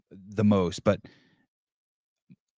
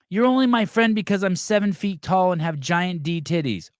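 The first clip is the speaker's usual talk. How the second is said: mock whine; 8 semitones higher than usual. Mocking a complaining friend.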